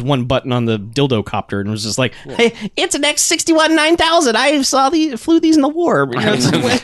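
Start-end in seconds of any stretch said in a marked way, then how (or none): 2.1-6.1 higher, slow mock war-veteran mouse; a pitched-up, slow, blasé pilot.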